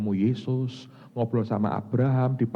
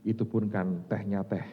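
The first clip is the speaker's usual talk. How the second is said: soft humble apology; 4 semitones lower, 7 dB quieter than usual. Retold or imitated. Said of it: "Terus dia ngomong begini".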